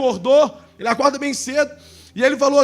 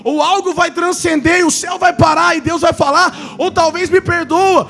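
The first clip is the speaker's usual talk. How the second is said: raised, urgent preacher's voice; impassioned preaching; 6 semitones higher than usual. Real, not acted. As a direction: preach it out in higher pitch. Preaches to congregation.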